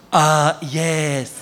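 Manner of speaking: slow, halting pidgin order; clueless tourist ordering. Retold or imitated. Dad ordering in a Chinese restaurant, slow halting tourist speech. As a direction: spell it out as if the waiter knows no English. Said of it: "walks in that restaurant and goes".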